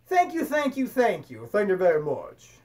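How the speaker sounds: low, rolling thank you very much; a light impression of a famous singer. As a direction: croon it like a legendary singer leaving the stage.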